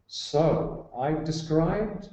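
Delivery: described drawn out slowly for emphasis; slow, deliberate weight on described; stress on described. Real, not acted. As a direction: lean on the word described, taking it slowly. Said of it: "let me just emphasize that word".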